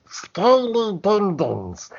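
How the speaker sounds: high, drawn-out kobold yell; kobold catchphrase cry. Retold or imitated. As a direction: stretch it out high like a battle cry. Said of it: "I had a, a catchphrase where it was".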